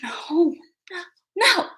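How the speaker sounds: real laugh breaking through the no's; high giggly burst of laughter. Real, not acted. Vlogger cracks up talking to chat, real laughter. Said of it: "I'm laughing".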